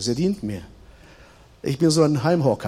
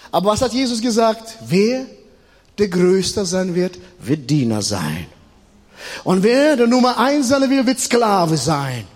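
raised, emphatic preacher's voice with stretched endings; preaching; 6 semitones higher, slower than usual. Real, not acted. Preacher quoting Jesus on who is greatest, emphatic preaching. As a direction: drive the lesson home from the pulpit.

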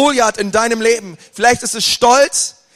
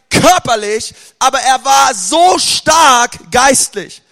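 raised, driving preacher's voice; fervent preaching; 3 semitones higher, 3 dB louder than usual. Acted. Pastor rallying the congregation, fervent preaching. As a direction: preach it out to the whole church.

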